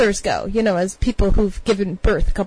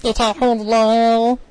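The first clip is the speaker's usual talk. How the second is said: deep, silly character voice; Meat World; 3 semitones lower than usual. Shown as a demonstration. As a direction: go deeper and drone it out low. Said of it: "gotta go deeper for Meat World".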